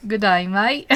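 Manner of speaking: attempted Aussie greeting; Australian accent. Shown as a demonstration. Streamer trying out an Australian greeting, Australian accent. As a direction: have a rough go at an Australian accent. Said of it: "Australian accent".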